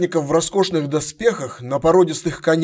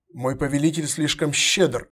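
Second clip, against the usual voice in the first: humble. Acted. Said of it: "смиренно поклонился Фес".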